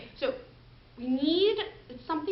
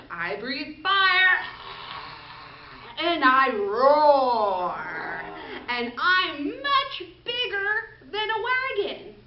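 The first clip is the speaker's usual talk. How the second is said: dragon voice; 2 semitones higher, 3 dB louder, much slower than usual. Acted.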